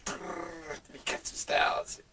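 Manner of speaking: French DJ asking to record his styles; French DJ imitation. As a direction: drawl it like the French DJ. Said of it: "He was like".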